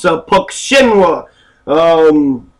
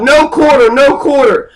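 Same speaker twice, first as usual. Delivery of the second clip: retold battle cry; 4 semitones higher than usual. Duke shouting to his troops at Culloden, mock battle yell. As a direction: bark it like a duke ordering no mercy. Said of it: "he screams out".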